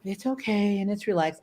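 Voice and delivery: a touch of soft reassurance; self-soothing. Retold or imitated. Owner calming herself around the worried foster dog, softly reassuring. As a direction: talk yourself down gently. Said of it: "stop myself and go".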